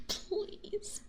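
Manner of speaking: ordinary talk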